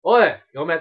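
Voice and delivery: lightly voiced punk threat; japanese delinquent tough talk. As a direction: bark it like a street tough. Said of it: "まだやってんねや、俺、そのノリ".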